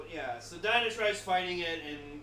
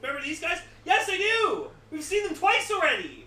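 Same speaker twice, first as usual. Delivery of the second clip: loud exasperated rant; ranting in disbelief; 9 semitones higher, 8 dB louder than usual. Real, not acted.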